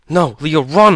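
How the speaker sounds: rising to a loud, high cry on run; desperate shout. A narrator's reading. Holloway shouting at Leo to run, rising desperate cry. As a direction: scream for him to get away. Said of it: "Holloway shouted".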